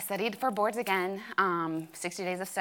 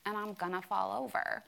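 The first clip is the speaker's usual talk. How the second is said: retelling her dramatic answer over coffee, softer; 5 dB quieter than usual. Retold or imitated. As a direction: play up the gloom like it's the end. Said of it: "being really dramatic".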